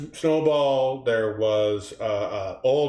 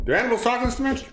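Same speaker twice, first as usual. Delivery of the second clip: fast, higher cartoon pig read; movie pig line; 6 semitones higher, much faster than usual. Repeating the quote for the audience, quick light pig voice. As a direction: rattle it off as the pig. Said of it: "I'm just doing it for the people".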